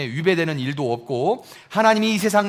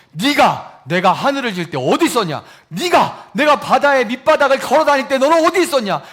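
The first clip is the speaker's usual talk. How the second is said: booming challenge; 5 semitones higher, 7 dB louder than usual. Retold or imitated. God questioning Job.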